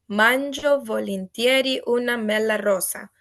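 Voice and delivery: "Mangio volentieri una mela rosa." said in Italian, each word ending clearly pronounced; Italian pronunciation. Shown as a demonstration. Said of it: "you would say".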